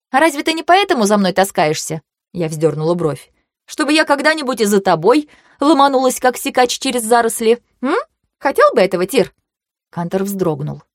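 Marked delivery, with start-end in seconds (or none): 0.1-9.3 higher-pitched, provoking questions; taunting challenge. Acted. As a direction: needle him with rising questions. (с вызовом, повышая тон)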